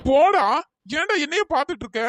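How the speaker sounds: loud, high snap of போடா; shout. Acted. Annoyed friend yells at pal to go fetch juice, loud. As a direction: shoo him away with a loud bark.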